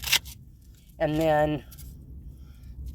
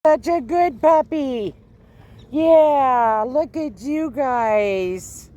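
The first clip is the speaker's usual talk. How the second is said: squeaky praising a dog; 11 semitones higher, 7 dB louder, slower than usual. Real, not acted. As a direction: coo at the dogs in a high voice. Talking to stray puppies.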